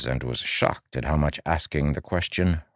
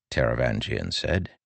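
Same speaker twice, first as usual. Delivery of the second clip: plain reading voice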